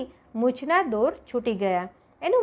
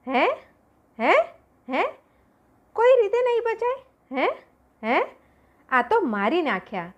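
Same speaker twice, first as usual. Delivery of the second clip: high, frantic repeated hé?; pleading in terror, voice much higher; panicked fear; 7 semitones higher than usual. A narrator's reading. Jesal on the sinking ship, terrified of dying, panicking. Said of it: "એનો ખોફ લાઈલાજ બન્યો".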